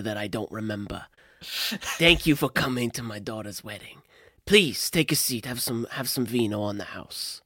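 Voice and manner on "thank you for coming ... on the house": understated Italian American host, soft; lightly voiced Italian American mob boss welcoming a guest; Italian American accent. Cosimo welcomes Pope, soft Italian American accent. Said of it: "my Italian American accent".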